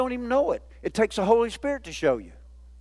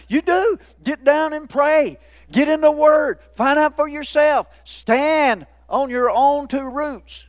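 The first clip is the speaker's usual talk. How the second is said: exhorting; 6 semitones higher, 4 dB louder, slower than usual. Real, not acted. Preacher exhorting the congregation.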